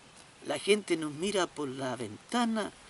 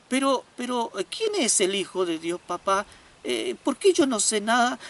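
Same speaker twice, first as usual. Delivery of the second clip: put-on child voice; 4 semitones higher, 4 dB louder than usual. Boy insists with father.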